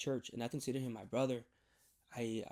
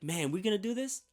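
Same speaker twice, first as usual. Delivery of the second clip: put-on excited high voice for the kid; playing the pumped-up kid; high, excited, a little louder; hyped; 7 semitones higher, 4 dB louder than usual. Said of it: "He started getting hyped".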